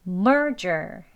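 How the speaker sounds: "merger" with strong MER, weak "ger"; stress on first syllable. Shown as a demonstration. Teacher modelling for learners, "merger" stressed at the front. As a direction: lean on MER in "merger", relax the ending. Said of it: "약하게 발음하시면 돼요".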